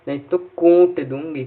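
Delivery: a hint of an angry mother; mother's threat. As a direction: threaten like a cross mom, half in play. Mother threatens child in story.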